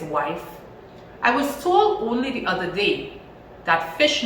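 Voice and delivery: put-on lively storybook reading for children; animated read-aloud story voice. A narrator's reading. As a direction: read it out like a teacher to a class.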